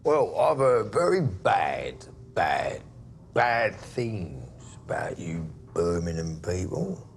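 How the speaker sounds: slow shouted build on "bad, bad, bad"; menacing shout. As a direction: bark it out to threaten him. Menacing outburst at Birmingham guest.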